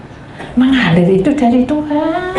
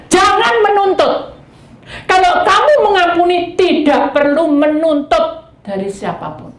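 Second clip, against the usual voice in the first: high, loud exhortation; forceful preaching; 9 semitones higher, 4 dB louder than usual. Acted. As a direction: preach it with power.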